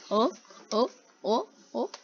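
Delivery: short, evenly spaced "oh" pulses; imitated heartbeat. Viewer mimicking player's heartbeat, pulsing mock beats. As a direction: pulse like a pounding heart, each rising. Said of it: "his heartbeat is like".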